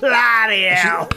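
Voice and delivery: put-on slow whispered bloody hell in a little girl voice; toddler's whispered swear. Dad imitating his daughter whispering in awe. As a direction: hush it out in awe like a small child. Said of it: "She's only two and a half".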